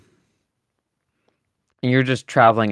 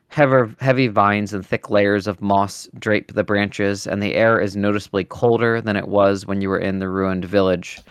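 game master narration. A narrator's reading. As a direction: set the dark forest scene.

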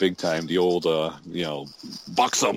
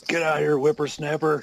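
put-on high crotchety old-timer voice; cranky geezer waving you off; old prospector; 8 semitones higher than usual. Answering the grumpy old man bit.

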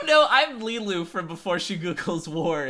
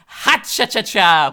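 Jimmy Durante impression; 8 dB louder, slower than usual. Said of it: "which is just Jimmy Durant".

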